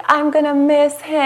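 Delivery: high, imitated wail of missing someone; loud tearful outburst. Student bursting into tears as teacher leaves, high mock wail. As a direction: re-enact bursting into tears, pitch shooting up. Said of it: "I said really loudly".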